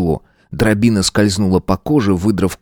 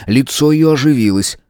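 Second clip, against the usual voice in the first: ordinary delivery, nothing marked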